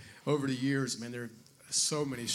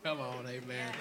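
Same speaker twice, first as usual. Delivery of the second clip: usual speaking voice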